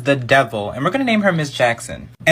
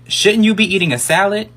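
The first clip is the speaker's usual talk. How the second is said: pointed, higher sassy retort; sassy comeback; 4 semitones higher than usual. Retold or imitated. Boy roasting his mean teacher, sassy comeback. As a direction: fire the insult back with attitude. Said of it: "I was like".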